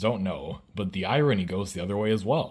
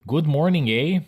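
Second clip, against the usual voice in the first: high, loud mock-Canadian question; mock-Canadian lilt, pitched up on "eh"; 7 semitones higher, 6 dB louder than usual. Shown as a demonstration. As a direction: ask it brightly as a caricature Canadian. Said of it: "all Canadian sentences being phrased as questions".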